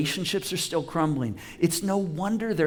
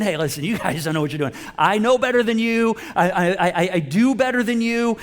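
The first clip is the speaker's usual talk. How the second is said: mock superior; 4 dB louder than usual. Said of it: "he's almost like saying".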